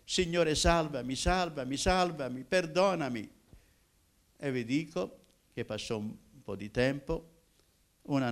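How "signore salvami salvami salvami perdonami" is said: louder, rising, imploring prayer; pleading cry to God. Retold or imitated. Young man crying out to the Lord for salvation, louder. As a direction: beg for mercy, growing louder each time.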